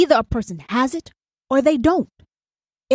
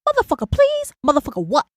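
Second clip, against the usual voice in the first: sharp incredulous scoff, high on the first word; demon side scoffing; 4 semitones higher, faster than usual. Retold or imitated. The demon side dismisses the sender, incredulous and scoffing. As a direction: scoff at it like your difficult, demanding side. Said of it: "Difficult and demanding is like".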